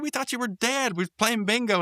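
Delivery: high, bright cartoon voice; cartoon character voice. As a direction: voice a goofy cartoon friend. Retelling cartoon dialogue.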